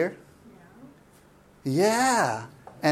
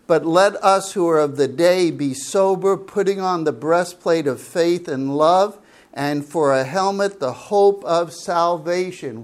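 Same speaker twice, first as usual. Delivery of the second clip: louder, measured reading of the verse; scripture reading; 3 dB louder than usual. Acted. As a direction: proclaim the verse to the congregation. Reads scripture verse aloud.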